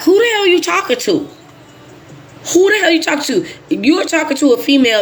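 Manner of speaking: high, indignant who the hell; outraged. Real, not acted. Outraged at being called bro.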